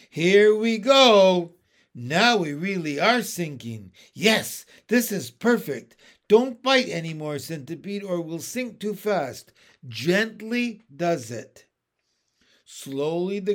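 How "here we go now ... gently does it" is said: loud and eager, steady; eager, guiding. Acted. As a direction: talk them down gently but gladly. James guiding descent, loud.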